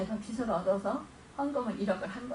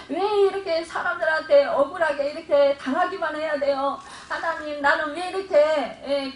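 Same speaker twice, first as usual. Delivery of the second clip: raised, louder pleading to God; mock lament, pitched up and insistent; imitated plaintive prayer; 4 semitones higher, 5 dB louder than usual. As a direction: act out an aggrieved believer pouring out complaints in prayer. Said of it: "그러면서 기도하는데".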